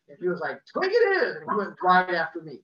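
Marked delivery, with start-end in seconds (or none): 0.6-1.4 much higher and louder, gleeful menace; villain's choice. Retold or imitated. Neighbour choosing which kid to chase, hammed-up menace. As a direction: pick your prey like a cartoon villain. Angry neighbour picks his victim.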